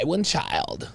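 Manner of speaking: soft mock condescension; condescending. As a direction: quietly imitate her condescension. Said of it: "The condescension".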